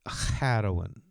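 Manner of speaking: badly faked Pakistani accent; hesitant Pakistani accent attempt; Kumail Nanjiani. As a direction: try a Pakistani "Heroin" with a tapped r. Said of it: "I believe Kumail's Pakistani".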